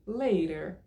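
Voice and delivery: LATER with the T softened to a tap and R sounded; Californian pronunciation. Shown as a demonstration. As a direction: demonstrate LATER the Californian way, tapped T. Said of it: "a pronúncia da Califórnia".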